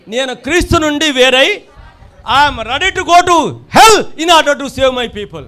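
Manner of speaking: loud, very slow cry over music; impassioned vow. Acted. Preacher voicing Paul ready for hell, slow impassioned cry. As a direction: cry out each word slowly as Paul's vow. Paul's vow voiced in sermon.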